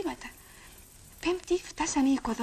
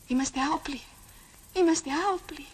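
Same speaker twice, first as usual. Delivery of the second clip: crying out; 4 semitones higher than usual. Acted. Pleading as tanks arrive.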